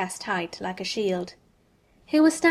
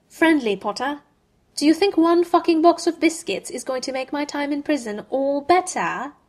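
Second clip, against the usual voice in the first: higher, louder bitter scorn, slowing at the end; angry scorn; 6 semitones higher, 6 dB louder than usual. A narrator's reading. Malfoy rejecting Harry's biscuits, loud and bitter. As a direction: throw the question back in his face.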